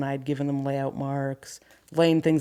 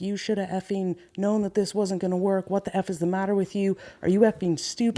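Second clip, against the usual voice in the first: retold angry yell; 4 semitones higher than usual. Worker retelling how she yelled at a concrete guy, mild mock yell. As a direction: imitate chewing someone out without shouting. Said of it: "I'm yelling at him".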